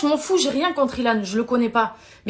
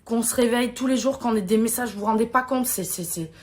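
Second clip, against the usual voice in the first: close to tears; 2 semitones lower, 3 dB quieter than usual. Real, not acted. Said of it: "ça me fait monter les larmes".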